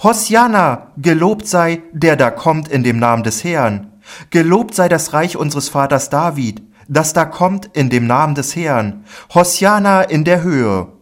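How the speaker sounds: high, loud joyful acclaim; jubilant shouting. A narrator's reading. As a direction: hail the king exultantly. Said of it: "schrien und sprachen".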